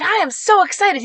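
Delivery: imitated gushing, high and loud; excited supporter. Supporter greeting the candidate from his truck, excited.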